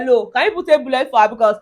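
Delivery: loud, fast outraged comeback; indignant retort. Acted. Vlogger hitting back at Laura's bullet remark, loud and fast. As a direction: fire it straight back, offended.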